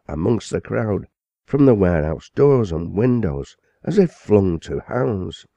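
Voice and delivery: a scandalized chaplain denouncing the crowd; indignant parson. Acted. Parson's impassioned tirade at the gathering.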